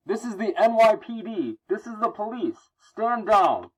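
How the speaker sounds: high, projected officer voice; police order. Acted. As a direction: announce it like police giving orders. Voicing police ordering over loudspeaker.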